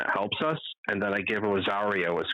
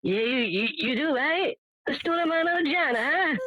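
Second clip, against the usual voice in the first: hammed-up Italian accent, much higher; thick Italian accent. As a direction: play the pizza man leaning in. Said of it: "he's such a thick accent".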